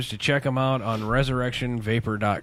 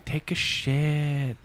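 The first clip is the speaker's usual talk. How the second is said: put-on toddler quote; 4 dB quieter, much slower than usual. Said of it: "we got her on the mic saying".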